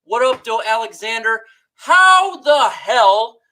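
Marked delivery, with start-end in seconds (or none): 1.7-3.4 slow, drawn-out louder outrage; dragging the words in real frustration; exasperated disbelief. Real, not acted. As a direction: stretch it out in fed-up disbelief. Angry fan ranting about trade.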